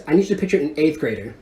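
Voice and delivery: ordinary talk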